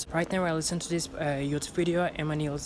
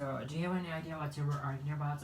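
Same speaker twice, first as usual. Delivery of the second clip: quiet shadowing; 11 dB quieter, faster than usual. Shown as a demonstration. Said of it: "quiet shadowing of clip".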